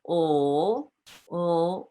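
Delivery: a held, voiced l; voiced l sound. Shown as a demonstration. Teacher sounding the l to show voice stays on. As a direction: hum out a long voiced ol. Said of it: "is a voice sound".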